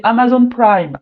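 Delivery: "Amazon Prime" said lightly the English way; light English accent. Shown as a demonstration. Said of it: "je prends l'accent un peu anglais".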